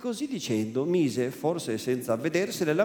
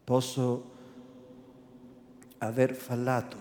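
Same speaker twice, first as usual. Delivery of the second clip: gentler and lower Posso aver fallato; softened voice; 5 semitones lower, 5 dB quieter than usual. Acted. Renzo conceding to the priest, lower and softened. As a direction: soften it, a young man backing down. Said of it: "con voce raddolcita".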